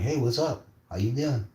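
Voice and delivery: casual mock-innocent return; breezy greeting.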